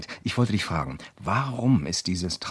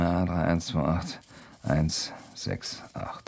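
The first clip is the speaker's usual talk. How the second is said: slow repeat; 5 dB quieter, slower than usual. Acted. Repeating the number while noting.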